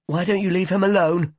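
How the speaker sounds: high, loud sudden burst of anger; angry outburst. A narrator's reading. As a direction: explode at her, pitch climbing. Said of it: "Jean burst out suddenly".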